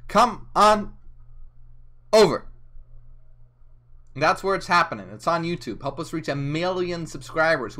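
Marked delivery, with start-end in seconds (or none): 0.1-2.5 calling viewers over in a big voice; loud sing-song call. Acted. Streamer calls viewers to YouTube, loud sing-song. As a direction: come on rising high and loud, over punched.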